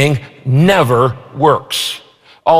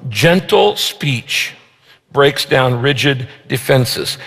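very slow, each word given weight; slow emphatic restatement; 3 semitones lower, slower than usual. Shown as a demonstration. Pastor to congregation, slowly driving the verse home. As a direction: lay out "Gentle speech" word by word so it sinks in.

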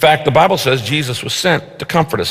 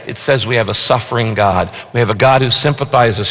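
usual speaking voice

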